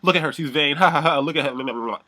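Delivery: high, loud mocking sing-out with ha-ha; retold jeering. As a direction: mimic his gleeful ridicule. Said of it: "make fun of the fact".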